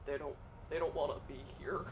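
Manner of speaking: low, soft, sheepish admission; retold reluctant answer. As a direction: admit it quietly, deflated. Retold reluctant translator answering party.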